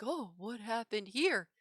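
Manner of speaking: mocking imitation of a bumbling teacher. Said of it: "to bumble on over and be like".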